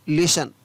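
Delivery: लिसन said as lisən with no t sound; लिसन without the t; silent t. Shown as a demonstration. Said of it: "टी का उच्चारण है वो नहीं हो रहा है".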